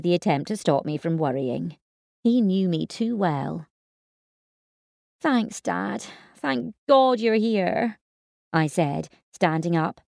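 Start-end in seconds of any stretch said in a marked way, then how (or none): 5.2-8.0 relieved. Acted. Relieved daughter thanks dad.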